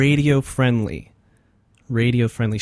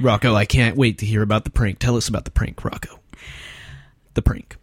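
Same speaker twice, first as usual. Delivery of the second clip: a milder bro host voice; toned-down radio host; 3 semitones lower than usual. Acted. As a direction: reel the DJ voice back a bit. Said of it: "I reeled it in".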